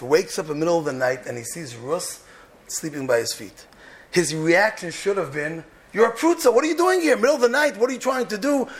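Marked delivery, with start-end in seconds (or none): 5.9-8.7 harsh rebuke. Pretend. Boaz's imagined reaction to Rus.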